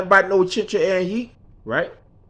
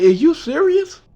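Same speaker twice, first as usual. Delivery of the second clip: high, slow disbelieving question; incredulous mama; 8 semitones higher than usual. Retold or imitated. Mama scolding her husband, high and slow in disbelief. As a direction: stretch it out like you can't believe him. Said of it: "And my mama said".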